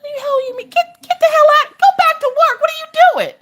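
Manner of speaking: high, loud mock yell; mother hollering at her nosy son in fun. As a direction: shout him out of the room in jest. Mother yelling son out, retold.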